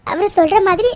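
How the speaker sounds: tearful. Acted. Wife blaming herself, crying.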